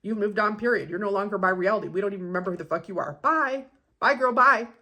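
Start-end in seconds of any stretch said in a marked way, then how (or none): 3.2-4.7 sassy, higher and louder bye-bye; dismissive goodbye. Acted. Dismissing the friend who's gone, with sass. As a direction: wave them off with attitude. Dismissing someone you've moved past.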